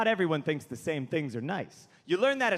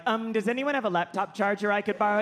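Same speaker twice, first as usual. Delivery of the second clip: hesitant, apologetic everyday request; mock polite timid asking; meek small talk; 2 semitones higher, faster than usual. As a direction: ask it meekly, on a level raised tone. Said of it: "that bullshit way we all have to talk".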